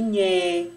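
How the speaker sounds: "nhé" as one long held syllable; drawn-out NHÉ. Shown as a demonstration. Teacher showing pupils the sound nh makes, drawn-out "nhé". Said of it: "pode produzir o som de".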